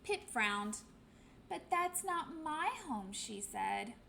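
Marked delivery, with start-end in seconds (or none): 1.5-3.1 higher, small chick voice; the lost chick, a bit let down; little penguin. Acted.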